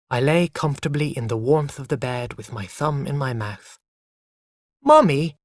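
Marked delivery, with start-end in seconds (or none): 4.8-5.4 louder, bright happy call; child calling happily. A narrator's reading. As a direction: call out gladly to mother. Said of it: "I said loudly and happily".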